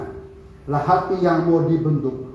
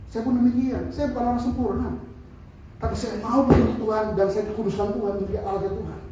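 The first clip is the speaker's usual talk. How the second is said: usual speaking voice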